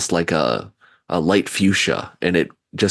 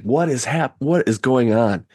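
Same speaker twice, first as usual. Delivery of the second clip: bewildered; 5 semitones higher than usual. Acted. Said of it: "everyone's just kinda looking around like".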